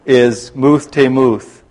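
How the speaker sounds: slow, careful "muth temuth" in English sounds; anglicized Hebrew. Shown as a demonstration. Bible teacher to class, slow anglicized "muth temuth". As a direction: spell out "muth temuth" slowly as an English speaker would. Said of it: "I'm going to pronounce it in an anglicized way".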